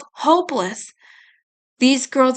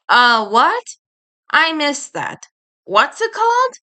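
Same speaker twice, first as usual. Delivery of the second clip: mock asking; 4 semitones higher than usual. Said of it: "Eddie asked".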